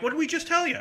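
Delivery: high-pitched mild telling-off; lightly acted exasperated reprimand; scolding. Staff to the fan pulled out of line, mildly scolding.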